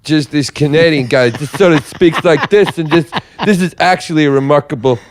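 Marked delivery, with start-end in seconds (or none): 1.6-5.0 Tom Stade impression. Shown as a demonstration. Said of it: "impersonation of this guy".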